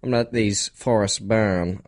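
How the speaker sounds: nasal-copying Aussie accent attempt; attempted Australian accent. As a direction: imitate a stock Aussie accent. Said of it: "It's accent Nick".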